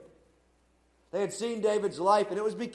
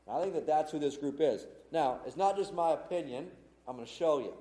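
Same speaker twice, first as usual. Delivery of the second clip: nasal raspy voice; 2 semitones lower, faster than usual. Real, not acted. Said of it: "I apologize for the nasally, raspy voice this evening".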